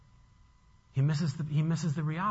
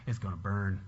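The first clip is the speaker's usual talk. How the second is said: grim anticipation; 9 semitones lower, 6 dB quieter than usual. Acted. Voices Jonah waiting for destruction.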